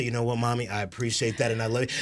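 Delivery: a son's soft thanks to his mom; gently accepting the apology; tender reply. Retold or imitated. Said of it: "I can actually say".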